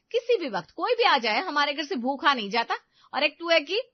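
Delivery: mother defends her kitchen to the teasing son; indignant scolding. Acted. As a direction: put him in his place, hurt pride. Mother-in-law scolding brother-in-law.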